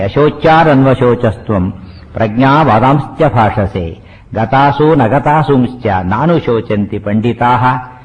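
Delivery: slow, measured Sanskrit recitation; verse recitation. Shown as a demonstration. Teacher quoting Krishna's first words to listeners, slow recitation. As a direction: draw out each syllable of the verse.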